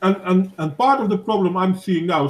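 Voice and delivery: talking through a mouthful; words round a bite of food; mouth full. Real, not acted. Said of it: "sorry, I have my mouth full".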